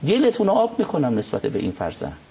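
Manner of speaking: lifted, emphatic divine voice; a hint of God's commanding tone; voicing God. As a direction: speak as God, declaring firmly. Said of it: "خدا میگه".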